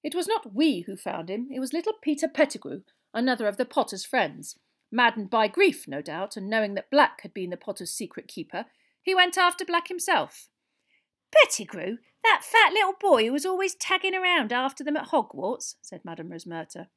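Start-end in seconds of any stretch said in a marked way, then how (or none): 0.0-10.5 lightly voiced pompous minister; raised voice, recounting with weight; Fudge, grave. Minister explains who found Black, gravely. 11.3-15.8 loud, high landlady's surprise; Madame Rosmerta, incredulous. Acted. Landlady recalls the boy who tagged along, incredulous.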